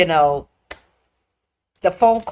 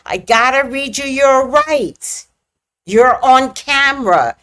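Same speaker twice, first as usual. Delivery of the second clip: cop talking down; 3 semitones higher, 4 dB louder than usual. Retold or imitated. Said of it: "talking to me like a five-year-old".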